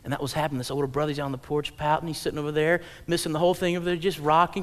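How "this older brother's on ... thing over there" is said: ordinary talk, nothing marked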